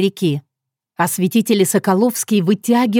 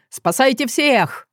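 urgent shout; 6 semitones higher, slower than usual. Acted. Director remembers the children.

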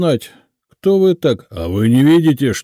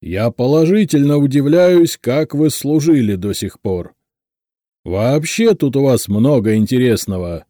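loud, higher-pitched official tirade; clanging, indignant dressing-down; angry deafening boss; 5 semitones higher, 6 dB louder than usual. A narrator's reading. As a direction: berate a subordinate at full volume. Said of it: "Лысый Квадратный неожиданно рассердился".

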